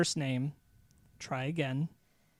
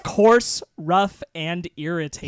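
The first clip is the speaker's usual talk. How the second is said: loud; 7 dB louder than usual. Acted. Shouting the missing quote.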